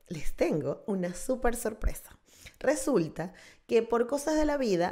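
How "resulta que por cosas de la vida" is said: secretive whisper. Acted. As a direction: lean in and whisper it. Conspiratorial aside to viewers.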